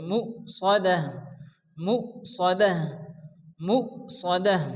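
short মু, then সদাহ with a heavy s and rounded o; thick rounded sad. Shown as a demonstration. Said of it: "হালকা গোল করে মোটা করে".

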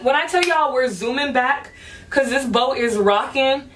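a little tipsy, loose and giddy; slightly buzzed, talking loosely. Real, not acted. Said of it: "I'm a little lit right now".

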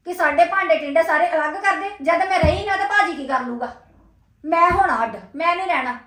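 firm, cross declarations in short bursts; angry. Acted. Younger woman tells elder she is moving out, angry. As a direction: lay down an ultimatum crossly. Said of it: "ਐਵੇਂ ਗੁੱਸਾ ਨਾ ਕਰ".

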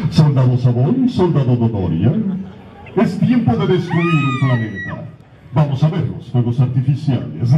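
slow, refined emperor voice; Freezer, first form. Acted. Voice actor demoing Freezer's first appearance, refined and smug. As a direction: speak like a smug English gentleman emperor. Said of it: "Dice así".

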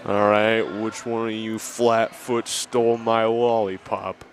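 put-on slow tough old-time cop; 1930s beat cop. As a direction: growl it like a gumshoe.

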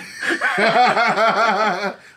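big loud burst of laughter. Real, not acted. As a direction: let out a loud belly laugh. Laughing at crude joke.

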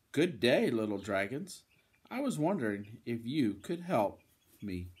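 lively, emphatic bedtime-story reading; storybook voice with punched key words; children's story narration. Acted. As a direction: read to little ones with big swings in tune.

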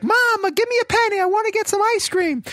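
very high, insistent mock kid's holler; imitated yelling for money. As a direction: beg up at the window like a yelling child. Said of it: "hear her yelling for a penny".

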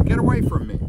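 high, loud angry shout; angry cry. Acted. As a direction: drive him off with a shout. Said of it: "cried the rainbow fish".

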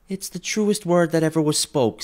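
high, eager agreement; Mrs Dilber agreeing. A narrator's reading. Mrs Dilber agreeing with the woman, high. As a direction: chime in quickly. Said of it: "said Missus Dilber".

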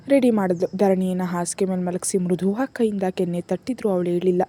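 ordinary delivery, nothing marked

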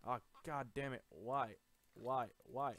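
loud, punched repeated cries; exasperated protest. Real, not acted. Gamer hit by setback, loud exasperated protest. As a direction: protest each word in dismay.

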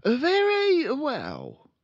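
blustering, slow, high car-dealer dad; pompous father voice; loud pompous father. Acted. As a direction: boom it out like a showy salesman.

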